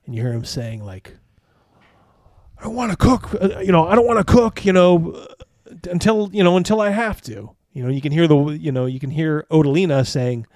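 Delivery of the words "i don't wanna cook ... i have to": high, put-upon grumbling cook voice. Acted. GM voicing the lazy cook Barbo, high whiny grumble. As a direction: whine like a lazy cook who won't work.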